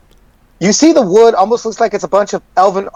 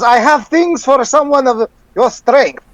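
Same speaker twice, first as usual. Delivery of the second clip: merchant voice; 3 semitones higher than usual. Acted. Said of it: "He goes".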